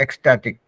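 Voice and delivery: "ecstatic" said as eks-TAA-tik; pronunciation demo. Shown as a demonstration. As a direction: model "ecstatic" with a clear eks at the start. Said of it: "ecstatic का एक बार pronunciation देख लेते हैं".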